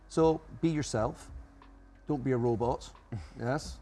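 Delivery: lightly hammed-up Monty Python comic voice. Guest joking about being yourself, a touch of Monty Python. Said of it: "starting to sound like Monty Python here".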